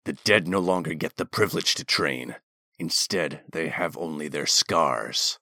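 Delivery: low and cold, a threat; cold commander threat. A narrator's reading. Commander continues his threat.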